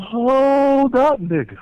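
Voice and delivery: high, loud yell to stop him; sudden shout. Retold or imitated. Grabbing Dutch to stop him, shouting loud and high. Grabs Dutch, pushes back.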